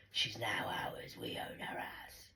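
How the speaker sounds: slow, soft, low near-whisper; hushed claim. Retold or imitated. Retelling the men claiming her, slow hushed voice. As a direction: sink into a slow, quiet murmur.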